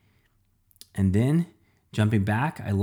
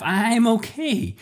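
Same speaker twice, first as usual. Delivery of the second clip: relieved; 12 semitones higher, 4 dB louder, slower than usual. Acted. Pizza slice relieved after fall.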